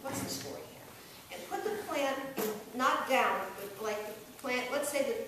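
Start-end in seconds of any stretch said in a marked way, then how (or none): 0.0-1.4 annoyed. Shown as a demonstration. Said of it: "like, you're really annoyed".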